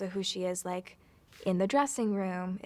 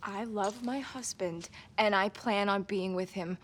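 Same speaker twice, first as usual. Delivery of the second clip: put-on Brooklyn accent. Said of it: "it comes out".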